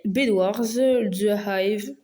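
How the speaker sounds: English names in a thick French accent; real French-accented English; bad English accent. Real, not acted. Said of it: "désolée pour mon accent anglais éclaté".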